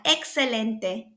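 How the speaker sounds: usual speaking voice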